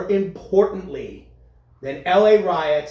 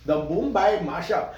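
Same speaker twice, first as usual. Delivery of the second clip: laughing; 4 semitones higher, slower than usual. Real, not acted. Joking about Bollywood mashups.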